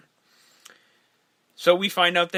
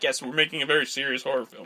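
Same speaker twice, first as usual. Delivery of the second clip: mock serious; 4 semitones lower, 5 dB quieter, faster than usual. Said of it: "everyone's like".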